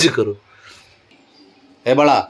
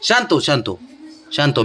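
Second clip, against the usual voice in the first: gentle calming; 3 semitones lower, 4 dB quieter than usual. Real, not acted. Owner calming his upset dog, soft and low. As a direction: hush her gently, like settling a frightened animal.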